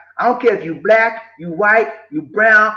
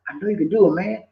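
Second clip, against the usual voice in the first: reassuring boss. Shown as a demonstration. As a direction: lift Johnny up gently.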